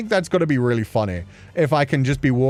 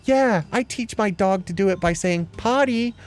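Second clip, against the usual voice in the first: mock other owners; 8 semitones higher than usual. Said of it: "Everybody's like".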